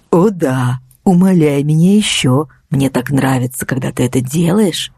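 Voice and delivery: a hint of an oily, gloating driver; sickly sweet villain. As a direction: savour her begging, honeyed and nasty. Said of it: "омерзительно елейный голос". (омерзительно елейный голос)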